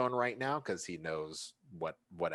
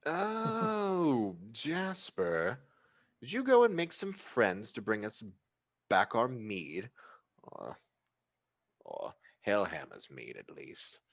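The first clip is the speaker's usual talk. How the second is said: elegant hostess voice; 3 semitones higher, slower than usual. Acted.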